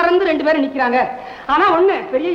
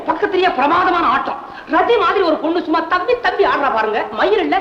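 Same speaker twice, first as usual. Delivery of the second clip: laughing while telling; 3 semitones higher than usual. Acted. Gossiping gleefully about the dance.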